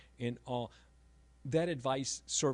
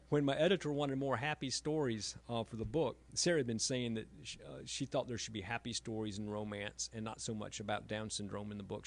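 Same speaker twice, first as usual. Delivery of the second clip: ordinary talk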